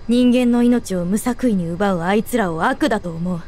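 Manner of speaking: ordinary talk, nothing marked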